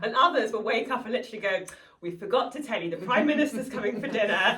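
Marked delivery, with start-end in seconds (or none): 2.0-4.6 mock client demand. Clients' sudden demand retold.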